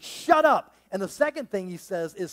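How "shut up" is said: higher, louder shut up full of attitude; with force and attitude. Acted. Jesus rebukes the storm, forceful and with attitude. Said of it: "with force and attitude".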